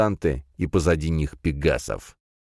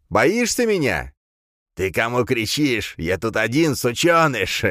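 mocking villain laugh; 6 semitones higher than usual. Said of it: "засмеялся Дорн".

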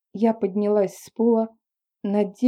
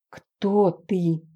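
usual speaking voice

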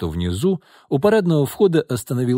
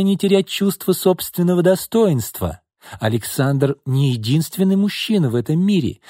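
put-on cool older sister; 5 semitones higher than usual. Sister coolly lectures sister.

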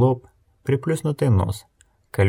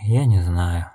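sighed; 3 semitones lower, slower than usual. Acted. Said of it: "вздохнула Нелти".

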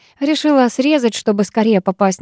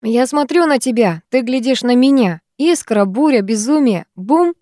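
насмешливо; 4 semitones higher than usual. Acted. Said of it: "насмешливо процитировал Кайзер".

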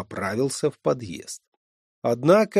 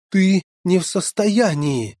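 protesting; 7 semitones higher, 5 dB louder than usual. Acted. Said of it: "запротестовал молодой рыцарь".

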